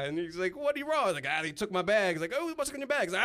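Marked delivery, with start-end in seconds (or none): 0.6-1.0 very high, louder imitation of the operator; voiced phone woman. Case desk woman to ranting caller, high mimicked voice. 1.3-2.2 high, loud complaint; retold angry wail. Victim telling case desk about bag, mock-furious wail. Retold ranting phone call. 2.4-3.0 very high-pitched operator imitation; voiced phone woman. Case desk woman asking caller, high mimicked voice.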